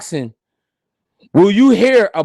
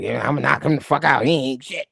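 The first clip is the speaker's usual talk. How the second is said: mock trash talk; 8 semitones lower, 5 dB quieter than usual. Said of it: "talking about knocking out Oshaki".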